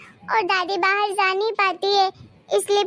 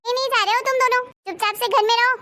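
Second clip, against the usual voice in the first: angry refusal; 5 semitones higher, faster than usual. Acted. Aunt snaps at the children.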